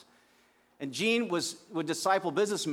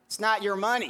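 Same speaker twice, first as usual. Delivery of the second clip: Gene's odd voice; 5 semitones higher, 5 dB louder than usual. Retold or imitated. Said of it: "not a total faithful picture of his voice".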